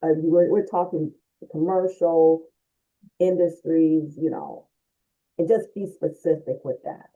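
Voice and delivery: muffled, like through a wall. Real, not acted. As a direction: speak from behind a muffled mic. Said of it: "you sound muffled".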